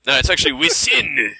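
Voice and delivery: put-on playful Japanese accent, Within as wisin. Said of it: "there's no T H".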